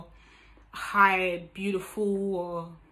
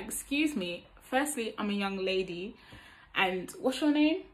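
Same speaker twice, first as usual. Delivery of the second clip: gently poised introduction, lifting at the end; small, composed, politely questioning; cute and elegant. Shown as a demonstration. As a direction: demonstrate a ladylike, unaggressive reply. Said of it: "it's just cute and elegant".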